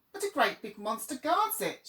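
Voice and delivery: understated storybook shout; mild shout. Acted. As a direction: crows crying out in alarm together. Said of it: "shouted all the crows at once".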